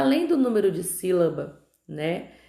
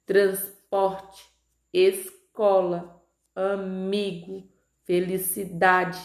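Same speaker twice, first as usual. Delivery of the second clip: slow word list, next-to-last syllable stressed; Transporte, escola, amigo, felicidade, each leaning on its penultimate syllable; penúltima sílaba tônica; much slower than usual. Shown as a demonstration. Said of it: "a sílaba mais forte". (palavras lidas devagar, com a penúltima sílaba forte)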